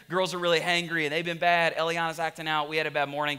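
mildly defensive imitation of a wife. Wife telling husband the girls have been bad, defensive. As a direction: rattle off grievances in self-defense. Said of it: "So she kicked into self-defense mode".

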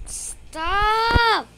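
shrill stop shouted high. Real, not acted. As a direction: yell at the brother. Siblings fighting over the house.

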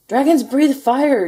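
high, loud, drawn-out shout; barked out to the whole group; coach's yell. A narrator's reading. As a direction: yell it slowly like a coach at practice. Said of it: "yelled the coach".

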